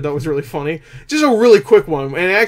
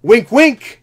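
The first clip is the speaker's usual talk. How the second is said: loud, high, over-obvious hint; exaggerated knowing nudge, pitched up; mock nudging aside; 8 semitones higher, 8 dB louder than usual. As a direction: hammer the in-joke at the audience. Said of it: "it stops the movie to say".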